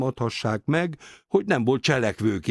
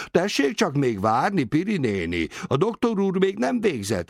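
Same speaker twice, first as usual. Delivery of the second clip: mild shout with raised pitch; calling out; 7 semitones higher than usual. A narrator's reading. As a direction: call firmly to a waiting patient. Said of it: "kiáltotta".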